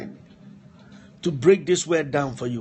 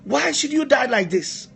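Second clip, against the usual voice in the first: higher, rising to louder anguished cries over a dead friend; acted weeping lament; 8 semitones higher, 3 dB louder than usual. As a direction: wail the questions like a grieving king, climbing to a cry. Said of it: "He was crying. He said".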